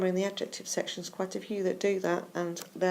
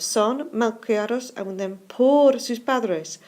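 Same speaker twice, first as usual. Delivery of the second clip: slow example reading; 3 semitones higher, 6 dB louder, slower than usual. Shown as a demonstration. Teacher reads Spanish example slowly.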